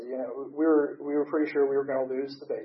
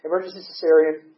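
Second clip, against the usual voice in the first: urgent wife; 5 semitones higher, 7 dB louder than usual. Retold or imitated. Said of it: "and, and she's like".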